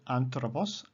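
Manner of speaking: "anthropos" stressed on AN; stress on first syllable. Shown as a demonstration. Teacher showing third-last accent, "anthropos" stressed on AN. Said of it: "the accent is on the third last syllable".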